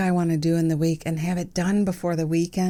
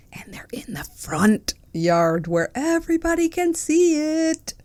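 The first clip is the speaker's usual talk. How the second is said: whisper; 11 semitones higher than usual. Acted. Confessing unfinished garden projects.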